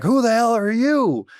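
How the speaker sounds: high, slow mocking challenge; imitated hostile guy. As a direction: mimic the guy turning around to confront him. Audience guy confronting the speaker.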